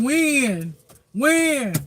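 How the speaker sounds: impatient complainer. Retold or imitated. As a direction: demand it like you've waited forever. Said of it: "I hear somebody saying".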